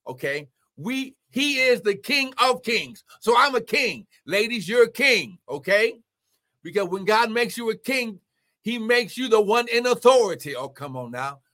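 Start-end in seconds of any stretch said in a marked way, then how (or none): 0.8-10.6 raised, declarative pulpit voice; emphatic preaching. Real, not acted. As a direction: declare it to the congregation. Preaches with force.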